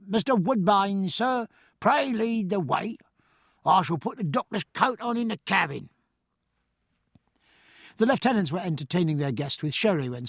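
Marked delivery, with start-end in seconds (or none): 0.1-5.9 sharply. Acted. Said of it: "then sharply to the master".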